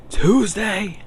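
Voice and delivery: high, disbelieving cry of Tuesday; shocked. Real, not acted. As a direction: squeal it in disbelief. Shocked at brother's news.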